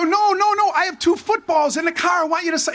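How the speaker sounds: high, flustered backpedal; flustered protest. Retold or imitated. Young player correcting McMahon's joke, high and flustered. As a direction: hurry to fix the embarrassing mix-up. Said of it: "I go".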